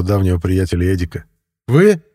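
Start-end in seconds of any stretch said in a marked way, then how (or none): 1.7-2.0 high, incredulous one-word question; disbelieving. A narrator's reading. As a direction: query it in sheer disbelief. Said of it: "не поверил наш директор". (недоверчиво, высоким голосом)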